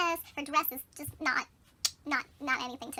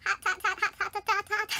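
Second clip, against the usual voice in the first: higher, staccato string of hots; rapid-fire repetition; 5 semitones higher, 3 dB louder than usual. Retold or imitated. Bird reassures Thumbelina about the prince, comic rapid-fire gushing. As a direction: rattle the word off over and over. Exaggerates prince's admiration, repeating hot.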